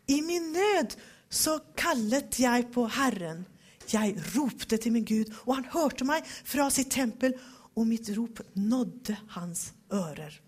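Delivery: solemn, weighty reading of the psalm; dramatic scripture reading. Shown as a demonstration. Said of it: "Nå har vi det lite mer dramatiskt". (dramatisk bibelläsning)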